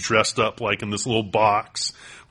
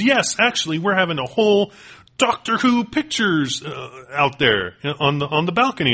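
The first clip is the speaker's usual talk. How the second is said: high, lightly put-on English Doctor voice; a half-hearted English accent, pitched up; mock English accent; 7 semitones higher than usual. Fan imitating the David Tennant cosplayer, mock English accent. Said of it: "And he goes".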